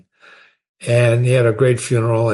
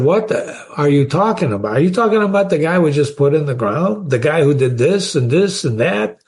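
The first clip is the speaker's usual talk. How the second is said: letting him have it; 3 semitones higher than usual. Retold or imitated. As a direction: retell telling off the angry boss, mildly heated. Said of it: "then I let him have it".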